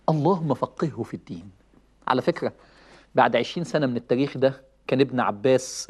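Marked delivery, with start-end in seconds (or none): 0.1-1.5 اللهم فقهه في الدين said lower and softer, as a tender blessing; gentle prayer. Shown as a demonstration. Preacher showing the nicer way to guide a child, gentle. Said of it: "بس أحلى. معمولة حلو".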